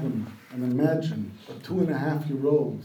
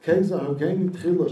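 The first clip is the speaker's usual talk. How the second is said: pleading; 3 semitones higher, 3 dB louder than usual. Retold or imitated. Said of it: "she pleaded".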